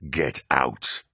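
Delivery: low, heavy yelled command; yelling. A narrator's reading. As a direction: throw him out. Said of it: "Horus yelled".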